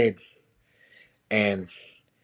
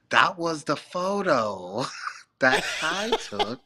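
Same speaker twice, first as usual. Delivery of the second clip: laughing whisper; 5 semitones higher, slower than usual. Real, not acted. Realizing the photo's meaning.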